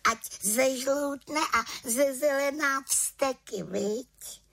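high, determined little witch voice; the little witch resolving, a touch gleeful. A narrator's reading. (vysoký odhodlaný hlas malé čarodějnice)

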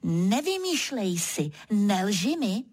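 mírně přísný zákaz; pokárej ho jen lehce; přísně. Acted. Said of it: "Zase tak přísně řeknu". (přísně, ale tiše)

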